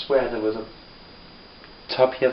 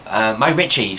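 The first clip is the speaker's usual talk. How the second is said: lightly voiced gran, raised at the start; gran's question; 3 semitones higher than usual. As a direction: imitate gran asking, pitched up then settling. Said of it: "she'll ask me".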